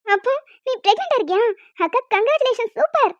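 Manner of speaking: excited. Acted. Sister excited, teasing.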